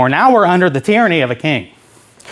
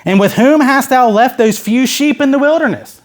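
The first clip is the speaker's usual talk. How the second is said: mild scolding, raised pitch later on; lightly acted reproach; mildly mad; 5 semitones higher than usual. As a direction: read it as a touch indignant. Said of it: "He gets mad at him".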